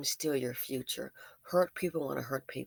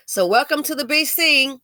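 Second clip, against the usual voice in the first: exclaimed; 7 semitones higher, 10 dB louder than usual. Real, not acted. Vlog sign-off exclamation.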